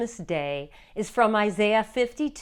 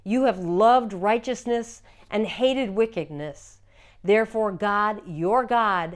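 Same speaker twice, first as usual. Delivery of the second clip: louder, declamatory scripture reading; solemn, louder lectern proclamation; proclaiming scripture; 5 dB louder than usual. Acted. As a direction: proclaim it to the congregation with force. Proclaims Hebrews passage in service.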